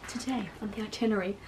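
lightly put-on tour guide. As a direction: announce the itinerary like a guide. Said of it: "You sound like you're a tour guide".

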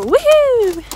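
drawn-out, high mock cheer; sarcastic woohoo. Real, not acted. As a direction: cheer with heavy irony. Sarcastic cheer about crazy horse.

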